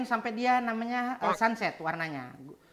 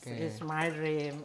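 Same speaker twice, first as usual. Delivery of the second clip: slow, lower and softer; 4 semitones lower, 4 dB quieter, much slower than usual. Shown as a demonstration. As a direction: say it slowly and gently.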